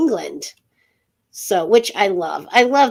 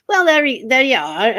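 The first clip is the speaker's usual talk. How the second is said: put-on English accent; 5 semitones higher, 3 dB louder than usual. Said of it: "I did the, the English for you".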